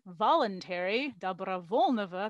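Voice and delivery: VOLUNTARY and DOBROVOLNOVO drawn out, loud; sarcastic emphasis. Retold or imitated. Scholar imitating grumbling Buryat elite, sarcastically stressing "voluntary, dobrovolnovo". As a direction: stretch and punch "voluntary, dobrovolnovo" mockingly. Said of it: "grumbled and sarcastically emphasized the word".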